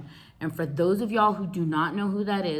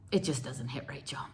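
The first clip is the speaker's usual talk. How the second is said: much softer, lower sigh of regret; 5 semitones lower, 10 dB quieter than usual. Real, not acted. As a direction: let It just doesn't hit right drop soft and low. Sad aside on Halloweens here.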